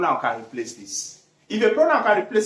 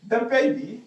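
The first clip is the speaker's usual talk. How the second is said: dictating; 5 semitones higher than usual. Shown as a demonstration. Dictating the first example sentence.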